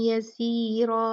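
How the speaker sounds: यसीरा into two counts of ghunna; nasal ghunna. Shown as a demonstration. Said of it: "दो count गुन्ना करते हुए".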